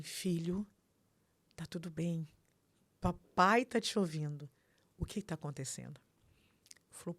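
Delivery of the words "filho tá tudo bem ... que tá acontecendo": centred, composed father. Retold or imitated. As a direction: imitate a father steadying his distressed son. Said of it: "o Flávio é muito centrado". (imitando um pai calmo e centrado)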